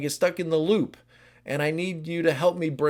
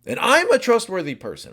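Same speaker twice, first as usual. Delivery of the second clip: ordinary delivery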